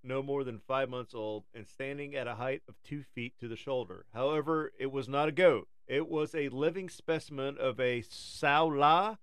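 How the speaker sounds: nature documentary. Acted. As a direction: read it like a wildlife film. Reads a documentary script.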